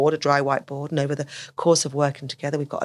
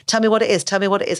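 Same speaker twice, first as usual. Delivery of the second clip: louder insistent questioning; pushing parent; 4 semitones higher, 3 dB louder, faster than usual. Retold or imitated. Parent pressing an anxious child to explain, insistent. Pushy parent demanding answers.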